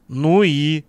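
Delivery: gruffly sceptical prompt; sullen query. A narrator's reading. Man by the fire questions the vampire theory, sullen. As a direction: ask it with a sullen edge. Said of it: "хмуро поинтересовался Владислав".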